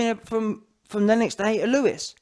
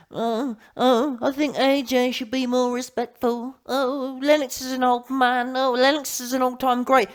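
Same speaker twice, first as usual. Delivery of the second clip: higher, monotone mimicry of whiners; mocking critics; 5 semitones higher than usual. Mimicking YouTube dons demanding respect for Lennox, mocking. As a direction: parrot them in a higher, droning put-on voice. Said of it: "several dons on YouTube saying".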